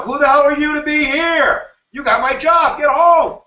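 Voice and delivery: high, angry mock rant; hostile nativist. Voicing nativists snarling at Chinese workers, angry and high. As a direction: bark it like a resentful local. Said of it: "we start looking at the Chinese".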